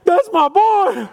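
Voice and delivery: slow, high, loud proud cry; proud dad. Retold or imitated. Dad watching his child on stage, proud shout. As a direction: burst out with pride. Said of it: "you're like".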